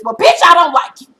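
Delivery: retold insult with a laugh; loud retort. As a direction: toss the line out laughing. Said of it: "and says".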